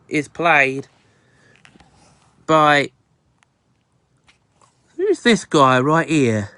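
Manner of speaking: a lightly put-on, bad Australian accent; hammed-up mock Australian with bloody and mates; bad fake Aussie accent. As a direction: fake an Australian accent, not too well. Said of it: "probably the worst fake Aussie accent".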